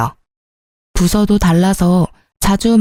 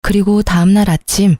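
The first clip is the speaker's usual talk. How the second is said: plain reading voice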